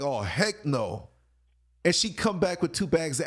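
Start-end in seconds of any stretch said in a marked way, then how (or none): 0.0-1.1 disbelief. Retold or imitated. Narrator reacting in disbelief.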